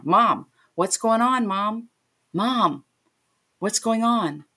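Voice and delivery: acted-out worried calling; retold alarm. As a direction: urgently try to get through to Mom. Retold alarmed phone call to mother.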